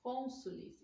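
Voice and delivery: "cônsules" drawn out very slowly, syllable by syllable; slow correct plural. Shown as a demonstration. Teacher modelling the right plural, said very slowly. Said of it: "E não cônsuls".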